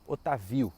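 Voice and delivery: "Otávio" com a tônica no VI: o-ta-VI-o; nome sem acento. Shown as a demonstration. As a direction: deslocar a tônica de "Otávio" do TÁ para o VI. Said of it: "estamos chamando ele do nome errado". ("Otávio" pronunciado errado, como "Otavíu")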